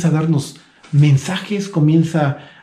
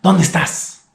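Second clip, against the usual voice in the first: angry tone; 3 semitones higher than usual. Shown as a demonstration. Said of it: "yo la leía en un tono enojado".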